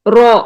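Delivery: رو said with a rounded o sound; wrong rounded ro demo. Shown as a demonstration. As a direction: round the lips into رو instead of را. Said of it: "را نہیں".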